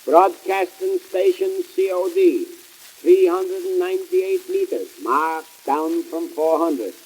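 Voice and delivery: slow, deliberate announcer read; hammed-up station ID; mock radio announcer. Comic radio host announcing his station.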